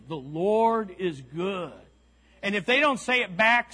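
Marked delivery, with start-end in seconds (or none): 0.1-1.7 slow and deliberate, stress on Lord; slow declaration. Shown as a demonstration. Preacher modelling what to tell your neighbor, slow. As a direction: say "The Lord is good" slowly to a neighbor. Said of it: "Turn to your neighbor".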